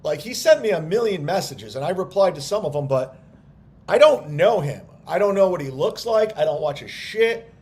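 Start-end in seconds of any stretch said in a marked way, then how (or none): 3.9-7.5 annoyed outburst. Real, not acted. Annoyed rant about the guy.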